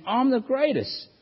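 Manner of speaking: lightly acted royal bragging; boastful Solomon. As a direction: brag like a self-satisfied king. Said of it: "Solomon saying".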